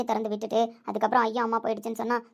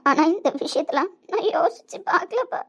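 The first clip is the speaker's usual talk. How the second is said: tearful, slow; 6 semitones higher, 5 dB louder, slower than usual. Acted. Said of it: "என்னடாம்மா அழுதுட்டு இருக்க?".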